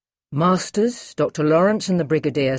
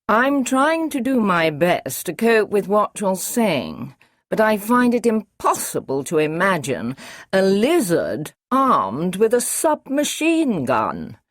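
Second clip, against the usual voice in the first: slow, a touch higher, doubting; Masters, incredulous; 5 semitones higher, 3 dB louder than usual. Acted. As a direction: struggle to believe it, lightly voiced. Masters voices disbelief.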